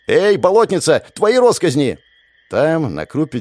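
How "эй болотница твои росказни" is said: calling out. A narrator's reading. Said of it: "он обернулся и крикнул".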